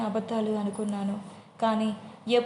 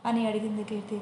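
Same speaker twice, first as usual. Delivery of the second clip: plain reading voice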